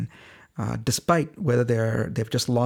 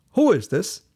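higher-pitched, imitated "who's calling me?"; puzzled phone answer; 7 semitones higher, 4 dB louder than usual. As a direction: act out someone puzzled by an unknown caller. Stranger answers an unexpected call.

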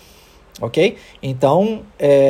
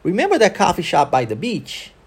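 connected English rhythm, "remember" peaking, "beach" lifted at the end; model rhythm and intonation. Shown as a demonstration. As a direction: question with stress on "remember", rising on "beach". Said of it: "tenta imitar o som que eu fizer".

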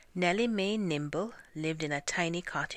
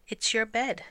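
proud, confident answer, higher and louder; 7 semitones higher, 5 dB louder than usual. A narrator's reading. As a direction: announce it with pride, pitched up.

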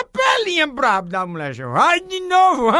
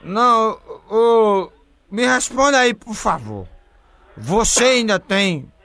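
put-on slow, slurred drunk pleading; slower than usual. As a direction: play a sloppy drunk caller. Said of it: "o bebo rei desmantelado".

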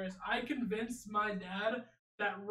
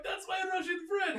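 higher-pitched mock Russian accent; playful put-on Russian accent; joking Russian accent; 8 semitones higher than usual. Joking around while watching with family, Russian accent. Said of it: "like, Russian, and I'd be like".

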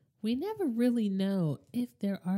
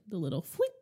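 burping the words; 3 dB quieter, faster than usual. Real, not acted. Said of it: "Sorry, I had to burp again".

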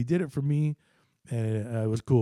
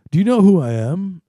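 loud, high, outraged demand; retold furious yell; indignant shout; 8 semitones higher, 14 dB louder than usual. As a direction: bark it like an entitled man who thinks he matters. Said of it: "the photographer goes".

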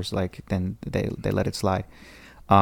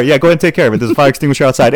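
mock dismissive boss; 4 semitones higher, 7 dB louder, faster than usual. Principal waves off the fire.

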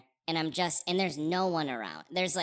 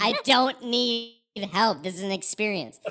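mock stubborn; 4 semitones higher, 4 dB louder than usual. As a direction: insist pompously you're fine. Joke stubborn refusal.

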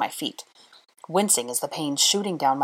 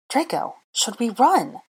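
frightened plea; 7 semitones higher than usual. A narrator's reading.

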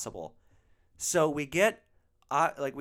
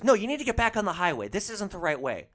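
higher, louder, fast imitation of a bossy rider; mock bossy passenger; 6 semitones higher, 6 dB louder than usual. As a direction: snap it at the driver like she knows better. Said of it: "She goes".

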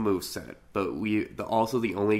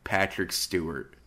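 deadpan; 2 semitones lower, 4 dB quieter than usual. Retold or imitated. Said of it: "with the most deadpan tone".

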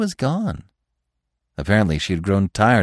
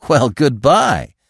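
higher, louder parting call; hurried goodbye; 5 semitones higher, 5 dB louder, slower than usual. A narrator's reading. Bambi breaking away from the stag, raised and impatient. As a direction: fling it back, eager to be off. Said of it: "Bambi flung back hurriedly".

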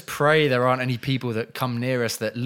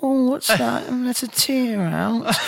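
mocking taunt; 9 semitones higher, slower than usual. Taunting an imagined victim.

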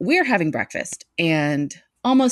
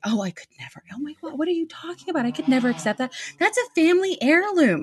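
high, gushing voice, politely declining; sweet refusing friend; 11 semitones higher, faster than usual. Retold or imitated. Imitating her sweet friend turning down the china, higher voice. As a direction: play the flustered friend who can't accept it.

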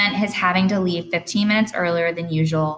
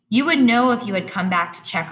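spiteful; 5 semitones higher, 4 dB louder than usual. Acted. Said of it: "I said spitefully".

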